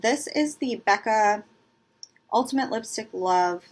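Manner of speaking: talking around cotton in her mouth. Real, not acted. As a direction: speak with cotton stuffed in cheeks. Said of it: "I've got cotton in my mouth".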